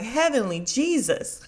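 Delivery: imitated group exasperation breaking into laughter; mock exasperation. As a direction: groan at her, amused. Imitates everybody's exasperation at Heavenly.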